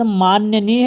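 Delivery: माननीय with an audible y, maan-ya-neey; wrong form demonstrated. Shown as a demonstration. Teacher names the faulty word, demonstrating an error. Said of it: "गलत है".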